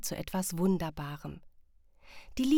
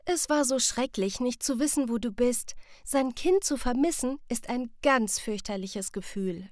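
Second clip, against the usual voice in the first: a relieved mother, lightly higher; mother telling her child how she feared; worried mother; 5 semitones higher than usual. Acted. Mother hugging her lost child, relieved and tender.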